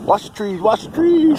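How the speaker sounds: sharp alarmed warning; urgent call. Real, not acted. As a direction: urge the drone away from the trees. Drone landing near trees.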